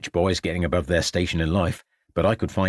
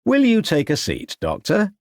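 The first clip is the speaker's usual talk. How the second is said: higher-pitched polite offer; calm, placating; 11 semitones higher than usual. A narrator's reading. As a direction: placate an angry visitor calmly. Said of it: "answered Ravenscroft in a calm voice".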